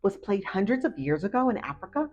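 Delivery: eager fact blurting. Acted. Ruby blurts dodgeball fact.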